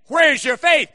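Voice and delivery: preacher voicing Jesus, forceful; forceful question. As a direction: drive the question home. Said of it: "He was saying".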